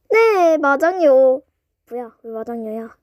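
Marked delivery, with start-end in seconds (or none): 0.1-1.4 slow drawl. Acted. Drawled repeated answer.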